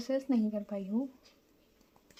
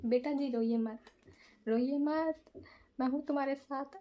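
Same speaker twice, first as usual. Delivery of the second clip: higher, soothing reassurance; consoling; 4 semitones higher than usual. Retold or imitated. Vlogger consoling crying friends, gently reassuring. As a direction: comfort a weeping child. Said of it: "संतावना दे रही हूँ कि".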